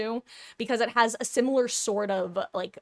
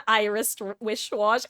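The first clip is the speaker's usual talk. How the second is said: laughing flub. Shown as a demonstration. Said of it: "Isn't it funny though".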